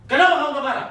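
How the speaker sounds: high, loud, scolding wife; wife furious that her husband won't fight back, mock yelling; mock angry wife. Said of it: "Nanti dia bilang".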